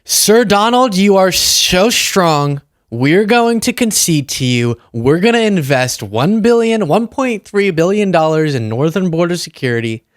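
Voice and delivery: lightly acted grovelling flatterer; mock-submissive announcement to a leader; Canada. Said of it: "Canada, as we talked about, announced".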